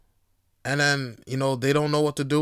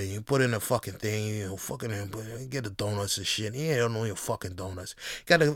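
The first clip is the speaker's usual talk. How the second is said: Italian mob guy. Pretend. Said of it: "some Italian dude talking to myself".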